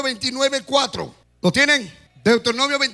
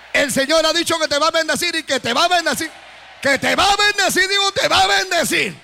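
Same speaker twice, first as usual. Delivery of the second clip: building proclamation; 3 semitones higher than usual. Real, not acted. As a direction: build it up, stressing va. Preacher building to promise.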